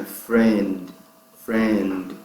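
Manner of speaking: "friend" ends crisply on D; ending on D. Shown as a demonstration. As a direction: cut "friend" off at the D. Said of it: "friend morre no D". ("friend" terminando no D)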